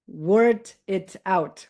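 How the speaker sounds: word it out run together, slow and linked; linked as one word. Shown as a demonstration. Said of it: "as if they are only one".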